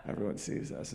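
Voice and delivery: soft unvoiced whisper; whispered dog pride. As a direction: breathe it like a secret boast. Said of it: "They're like".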